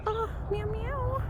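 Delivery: high coaxing meow at a stray cat. Real, not acted. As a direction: coax the kitty with tiny high meows. Calling to a cat.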